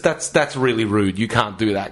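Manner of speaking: low, understated telling-off; disappointed reproach. Retold or imitated. Commuter to a queue jumper, low disappointed reproach. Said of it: "shock and disappointment rather than anger".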